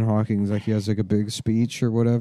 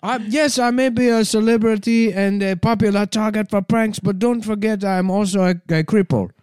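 computer voice; 9 semitones higher than usual. Retold or imitated. Continues Hawking voice.

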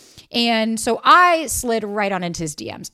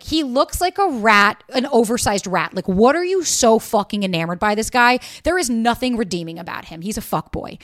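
scornful friends; 5 dB louder than usual. Retold or imitated. Friends mocking the guy.

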